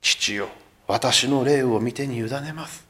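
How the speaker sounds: slow, hushed surrender to God; 霊 drawn out slowly and softly in 私の霊を; solemn last words. Acted. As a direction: breathe it out slowly like a dying prayer. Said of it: "叫ぶんですよ".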